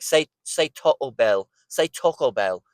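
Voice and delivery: put-on English friend's accent, rounded "Taco"; lightly imitated English accent; "Taco" with a round English "oh", measured; Naomi. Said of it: "I had this one friend named Naomi".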